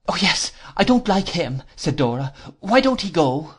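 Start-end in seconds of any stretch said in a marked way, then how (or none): 0.1-1.6 put-on high-pitched childish sweetheart, complaining; petulant Dora. Dora objects to her sweetheart's friend, high and petulant. 2.6-3.6 put-on high-pitched childish sweetheart, complaining; petulant Dora. Dora objects to her sweetheart's friend, high and petulant.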